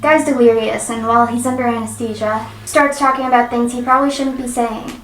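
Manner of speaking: lively forum-story narration; story read-aloud. Acted. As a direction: read it out like a first-hand account.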